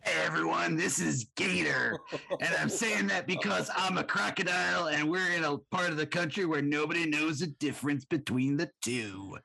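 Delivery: mock Southern accent. Guest introducing himself as Gator the crocodile, mock Southern accent. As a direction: introduce yourself as a swampy Southern good old boy. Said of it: "we're doing some South bashing".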